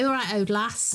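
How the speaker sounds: lightly voiced Mansfield dialect; a hint of Mansfield dad; dad's Mansfield accent. Daughter quoting her dad's greeting, light Mansfield accent. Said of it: "He was from Mansfield, my dad".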